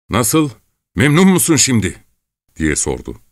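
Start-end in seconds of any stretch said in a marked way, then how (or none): 0.1-2.0 high, seething question; through clenched teeth. A narrator's reading. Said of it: "Dişlerinin arasından Gavrila'ya".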